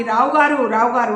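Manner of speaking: doctor calling the unresponsive patient loudly. Acted. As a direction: call out to wake him. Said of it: "అని గట్టిగా పిలిచి".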